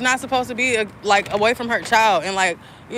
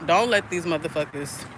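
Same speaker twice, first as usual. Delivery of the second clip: inner voice; 4 semitones lower, 6 dB quieter than usual. Retold or imitated. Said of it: "I just heard my higher self".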